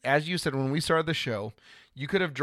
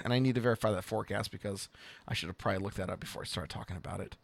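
quiet aside; 5 semitones lower, 8 dB quieter, faster than usual. Real, not acted. Aside admitting he didn't check.

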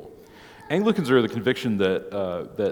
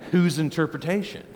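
skeptical questioner; 7 semitones higher, 3 dB louder than usual. Retold or imitated. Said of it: "you might say".

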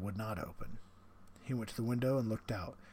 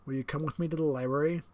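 higher, louder, smug aristocratic villain; the general, menacing; 5 semitones higher, 6 dB louder than usual. Acted. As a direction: savour the threat like a proud host. General speaks, character voice.

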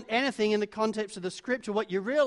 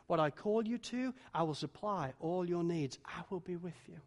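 reassuring; 3 dB louder than usual. Acted. God comforts fearful Moses.

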